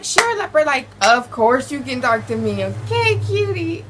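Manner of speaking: high, eager mock gush; eager gushing reply. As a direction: gush like a smitten teen.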